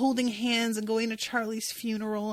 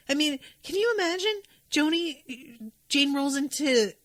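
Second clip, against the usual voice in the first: higher, cracking into tears; voice breaking; 6 semitones higher than usual. Real, not acted. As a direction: let the tears break through the question. Tearing up over the scene.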